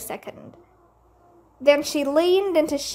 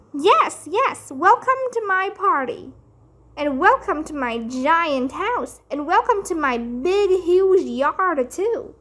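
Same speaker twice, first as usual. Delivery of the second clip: excited bragging; 4 semitones higher than usual. Acted. Lucille showing off her house.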